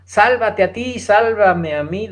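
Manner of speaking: insistent retold plea, only lightly acted; retold demanding. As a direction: imitate a complaining demand, stretching the last plea. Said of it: "le reclamaba".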